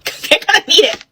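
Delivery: high, laughing aside. Real, not acted. Laughs at her own parting joke.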